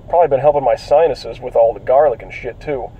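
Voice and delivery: congested, cracking voice. Real, not acted. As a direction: let the voice crack from a cold. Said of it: "my voice crackling and fluctuating in tone".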